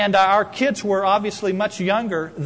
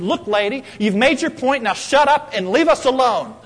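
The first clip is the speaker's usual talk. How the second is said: mild mock angry; 5 semitones higher, 4 dB louder than usual. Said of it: "A little bit more volume and a lot more anger".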